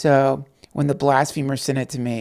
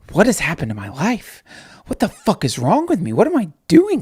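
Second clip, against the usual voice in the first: mock despair; 3 semitones higher, 4 dB louder than usual. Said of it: "you gotta think to yourself".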